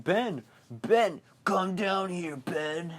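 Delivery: high, loud creepy clown call; Pennywise. Retold or imitated. Clown calling Ben down to him, high mock-eerie call. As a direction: lure the child in with a put-on clown voice. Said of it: "I know this voice".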